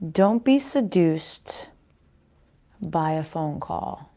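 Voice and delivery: slow breathy whisper; hushed slow whisper of a spirit message. Acted. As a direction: breathe the warning out slowly like a secret. Spirit message whispered, then repeated.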